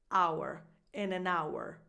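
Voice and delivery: "hour" as a full "ow-er"; fully defined hour. Shown as a demonstration. Coach contrasting the noun with our, fully defined hour. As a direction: sound out both parts of "hour". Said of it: "is fully defined".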